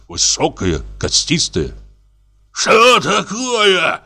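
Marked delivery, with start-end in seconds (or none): 2.5-4.0 put-on high, slow, drawn-out drunken bellow; drunken roar. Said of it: "заревел он".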